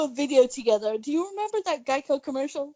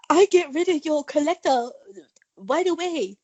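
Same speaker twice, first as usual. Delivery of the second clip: a light mock broken English accent; playful broken English accent, lightly done; 2 semitones higher than usual. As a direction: toss it off in a half-joking broken English accent. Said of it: "the Asian broken English accent".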